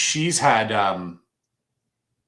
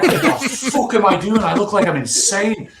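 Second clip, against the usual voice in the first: high-pitched incredulous self-talk; retold bewilderment; 10 semitones higher than usual. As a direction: retell it as baffled self-questioning, pitched up. Retells his bewildered self-talk.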